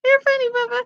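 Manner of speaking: high, amused voice to the pet; pet talk. Real, not acted. Owner amused by her pet, talking high and fond. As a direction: tease the pet fondly, way up high.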